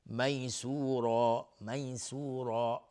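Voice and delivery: slow میسورا with full "raa"; heavy ra. Shown as a demonstration. Teacher showing the ra rule, slow heavy ra. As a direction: draw out میسورا, making the ر thick. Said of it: "را حکمش استعلاء".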